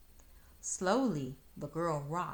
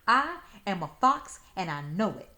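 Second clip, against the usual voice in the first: loud, higher indignant shout; 3 semitones higher, 9 dB louder than usual. Acted. Fox yelling at Flossie who doubts him, loud shout. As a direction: shout it out, insisting you're a fox. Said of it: "he shouted".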